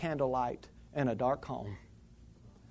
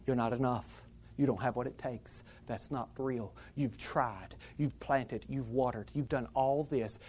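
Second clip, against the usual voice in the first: enemy's voice; 3 semitones lower, 8 dB quieter than usual. Acted. Preacher voices the enemy's accusations.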